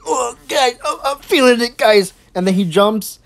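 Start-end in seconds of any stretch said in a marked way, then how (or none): 0.1-2.1 slightly higher mock excited voice; mocking the YouTuber. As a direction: imitate a fake-thrilled streamer. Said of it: "he's like".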